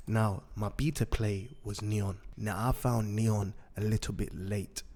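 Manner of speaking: hoarse, raspy throat. Real, not acted. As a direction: talk through a raspy throat. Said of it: "Sorry about my raspy voice again".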